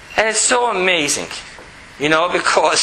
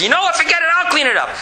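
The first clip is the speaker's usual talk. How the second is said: put-on much higher, defeated little girl; child giving in; 9 semitones higher, much faster than usual. Daughter finally gives in to her father, high childlike. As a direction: sigh and give up like a six-year-old.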